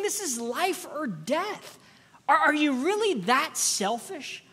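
a hint of an exasperated captain; captain rebuking. Captain rebuking selfish Jonah in the storm, mildly exasperated.

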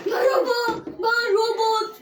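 loud, slow robot voice; drawn-out robot greeting. Pretend. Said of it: "şimdi robot sesini açıyorum".

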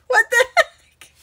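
very high, loud squeal of disbelief; exclaimed dismay. Real, not acted. Crafter showing viewers her mistake, exclaimed dismay. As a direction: squeak it out in bewilderment.

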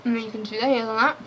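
chewing between words; talking while eating; mouth partly full. Real, not acted. Seen 0: Bit the wafer from -5 to -2; still chewing early in the words.

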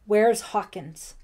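loud, slow, forceful question; demanding. A narrator's reading. Lieutenant Wilkins questioning Ellie about Hawkins, demanding. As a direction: demand an answer, weighting each word. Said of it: "he demanded".

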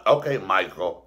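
amused, breaking into laughs; laughing. Real, not acted. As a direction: repeat it through laughter. Cracks up repeating the quote.

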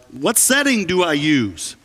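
calling upstairs, voice rising high, no real shout; mild mock holler up to someone upstairs; retold yell. Husband calls up to wife from the washing machine, mock yelling. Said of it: "so I yelled up to Bonnie".

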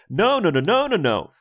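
high, loud repeated no's; imitating emphatic no. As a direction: echo his frantic denial. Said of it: "sample Paul saying".

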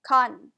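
"Con" with its second O reduced to uh; schwa in second vowel. Shown as a demonstration. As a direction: say "Con" with a weak, unstressed ending. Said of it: "Do you hear that uh sound?".

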